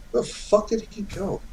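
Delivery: put-on high, soft confused old lady; foul mouthed granny. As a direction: squeak it like a baffled granny. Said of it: "She's like".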